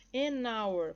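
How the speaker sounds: AN HOUR linked as "a-nour"; AN HOUR with no H sound; silent H. Shown as a demonstration. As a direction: drop the H of HOUR and join it to AN. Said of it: "Ou seja, sem som".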